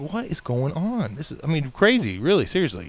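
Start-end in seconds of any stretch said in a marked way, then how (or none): 0.1-1.2 slow, drawn-out disbelief; acted-out bewilderment; bewildered. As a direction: ask it slowly, utterly baffled. Retells his bewilderment at hospital.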